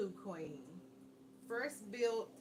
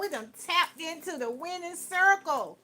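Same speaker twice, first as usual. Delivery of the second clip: excited shout; 10 semitones higher, 17 dB louder than usual. Real, not acted. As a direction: shout it like you just won. Excited shout over winning card.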